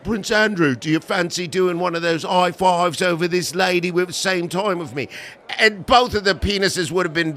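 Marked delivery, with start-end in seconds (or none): 0.0-5.1 mock British accent. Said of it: "he wouldn't have been like".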